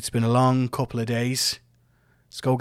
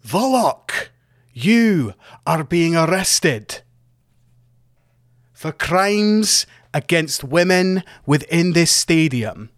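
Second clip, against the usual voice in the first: loud, high, slow official proclamation; games master announcing arrest; 5 semitones higher, 5 dB louder, slower than usual. Acted. Games master arresting Volok before the crowd, booming proclamation. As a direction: announce the arrest to the whole stadium. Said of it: "And the games master says".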